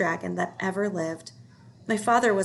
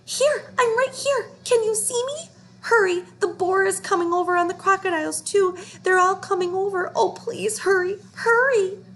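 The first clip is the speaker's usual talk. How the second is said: high, loud desperate dragon cry; baby dragon yelling; 11 semitones higher, 5 dB louder than usual. A narrator's reading. Baby dragon calling to his rescuer, high desperate yell. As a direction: call out frantically for rescue.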